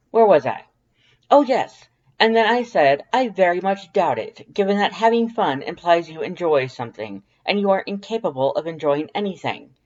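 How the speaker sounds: high, loud, proud skeleton voice; Papyrus storytelling voice. A narrator's reading. Papyrus telling Dance about the beach, high and loud. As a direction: tell it like a grand proud skeleton. Papyrus narrating his tale.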